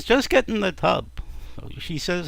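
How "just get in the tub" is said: higher-pitched impatient order; husband pressing his wife, not yet shouting; insistent. Acted. Husband insisting, first time.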